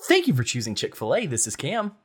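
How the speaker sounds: cheery customer service greeting; bright polished drive-thru greeting; Chick-fil-A voice. Shown as a demonstration. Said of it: "I could do my Chick-fil-A voice".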